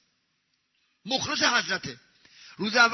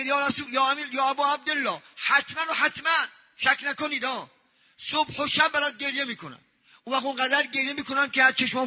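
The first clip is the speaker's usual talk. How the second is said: emphatic vow; 3 semitones higher than usual. Acted. Acted vow addressed to the Imam.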